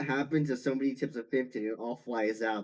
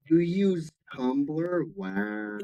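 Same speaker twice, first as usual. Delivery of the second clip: surprised; 7 semitones higher, 5 dB louder, much slower than usual. Real, not acted. Teasing disbelief at Tumblr use.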